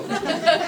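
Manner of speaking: high mock groan of despair; exasperated groan. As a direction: groan in exaggerated dismay. Mock despair at the cancelled race.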